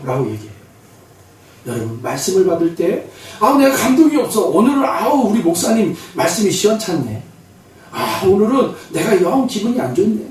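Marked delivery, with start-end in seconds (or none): 3.4-10.3 mildly acted churchgoer's complaint; irritated grumbling. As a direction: grumble about the sermon, lightly imitated. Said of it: "어떤 분들은 막 짜증나고". (투덜대는 성도 흉내)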